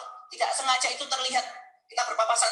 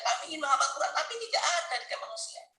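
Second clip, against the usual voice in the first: tearful; 3 dB quieter than usual. Real, not acted. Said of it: "waktu saya menangis".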